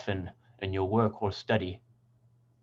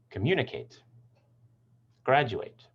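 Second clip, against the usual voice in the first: "communicate, graduate" stressing MU and GRAD; "communicate, graduate" with early stress, lighter "ate" endings; stress two before suffix. Shown as a demonstration. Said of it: "two syllables before the suffix".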